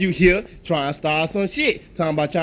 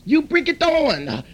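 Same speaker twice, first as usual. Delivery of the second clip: furious customer; 9 semitones higher than usual. Acted. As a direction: threaten the owner, fully worked up. Customer threatens the owner.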